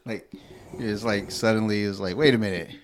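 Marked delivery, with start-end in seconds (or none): 2.2-2.7 rising to a loud, high question; incredulous parent. Acted. Parent catching a four-year-old living a double life, incredulous. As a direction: act out a parent's disbelief, pitch leaping at the end.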